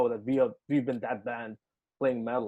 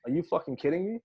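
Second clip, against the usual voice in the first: higher-pitched incredulous question, rising on "me"; retold disbelief; 4 semitones higher than usual. Musician retells his response to the offer, rising disbelief. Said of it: "my response was".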